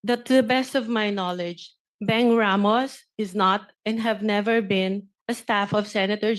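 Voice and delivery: reading a prepared statement aloud, measured and emphatic; formal statement. Real, not acted. Witness defends her name before the Senate committee, formal statement. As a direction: deliver a firm, formal testimony.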